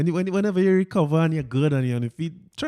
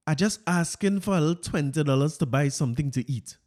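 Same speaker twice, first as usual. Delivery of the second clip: Fitz voice. Retold or imitated. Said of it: "let me get my Fitz voice here".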